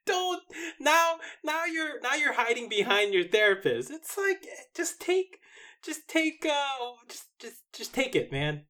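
high-pitched, halting exasperation; exasperated pleading. Acted. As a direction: plead with her in a high, stammering voice. Pleading with absent actress to own it.

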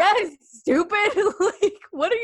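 hammed-up incredulous scolding; mock exasperation. Mocking friend's late realization.

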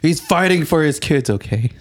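high urgent whisper. Pretend. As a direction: plead in a hushed whisper. Mock plea, whispered high.

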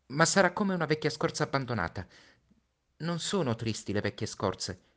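put-on a boy bracing his friend for his death; Little Prince, pleading. Little Prince voiced in story. (Piccolo Principe, voce acuta e accorata)

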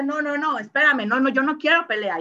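high, urgent backing away from a quarrel; half-hearted nervous no-no-no; mock pleading retreat. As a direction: play someone begging to avoid the fight. Green person fleeing a fight.

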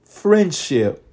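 friendship, each syllable stretched out; said slowly. Shown as a demonstration. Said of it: "let me say it slowly".

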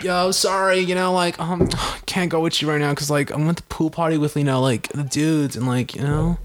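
lightly voiced slacker dude, full of fillers; mock dude-speak with halting hedges; mocking bro talk. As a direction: imitate a bro making lame excuses. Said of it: "people that talk like that".

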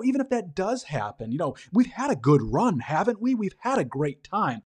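brushing off doom with a shrug; cheery Nandor quote. Retold or imitated. Nandor telling panicked vampires on call, breezy.

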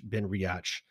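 Riach with an open 'atch' ending; common misreading. Shown as a demonstration. Showing how people read the label, Riach as 'ree-otch'. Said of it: "a lot of people read it as".

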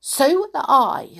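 high, loud, plucky squeak; brave little mouse. A narrator's reading. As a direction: pipe up boldly as a tiny mouse. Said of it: "said the Clockwork Mouse bravely".

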